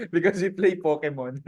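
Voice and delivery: chuckling through the words; amused, laughing it off. Real, not acted. Panelist admits the team plays Pokemon, laughing.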